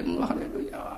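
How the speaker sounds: hushed, joyless mock hallelujah. Preacher imitating a woman with no joy, strained hallelujah. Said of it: "もうこの絵にしわ寄せて".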